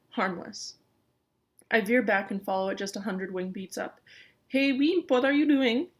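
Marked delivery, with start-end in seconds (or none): 4.5-5.9 louder, higher call across the sky; crying out. Acted. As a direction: call out to a friend overhead. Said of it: "Gonzo cries".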